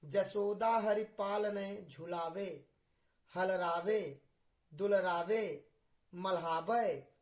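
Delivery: measured poem delivery, pausing after each verb; verse recitation. Shown as a demonstration. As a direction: recite the devotional verse phrase by phrase. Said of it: "जैसे मैं बोल रहा हूँ".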